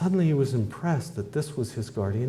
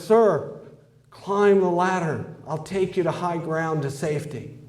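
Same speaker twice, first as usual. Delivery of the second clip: calling from helicopter; 5 semitones higher than usual. Acted.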